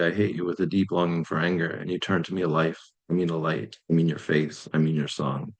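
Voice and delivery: measured verse that gradually sinks; poem reading. Acted. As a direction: recite in short phrases, winding down to the name. Reads own poem aloud.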